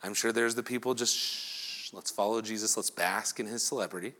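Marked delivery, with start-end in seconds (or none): 1.2-4.1 soft, hushed golf gallery; hushed crowd. Retold or imitated. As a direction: hush like fans following a star. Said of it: "It's kind of a golfing event".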